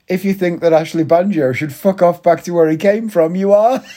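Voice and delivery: high, rising heated punchline; heated rant. Real, not acted. Lecturing racists to listeners, rising to a heated punchline. Ranting about racist opinions.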